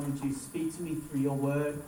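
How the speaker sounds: low, soft petition to God; model prayer. Acted. Pastor showing listeners how to ask God, prayerful. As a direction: pray it quietly and simply. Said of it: "why don't you ask God".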